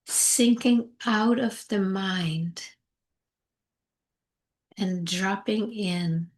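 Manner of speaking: slow meditation guide with long pauses; unhurried, spacious calming guidance; guided meditation. Acted. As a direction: ease them gently inward, phrase by phrase.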